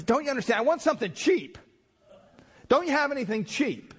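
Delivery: high, pleading cheapskate voice; exasperated stingy customer. Retold or imitated. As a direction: whine for something cheaper.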